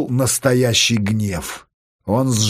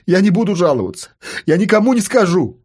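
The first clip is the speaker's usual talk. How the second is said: begging, slightly higher voice; wheedling promise; whining plea; 4 semitones higher, faster than usual. Acted. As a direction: bargain pitifully for release. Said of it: "стал конючить Рома".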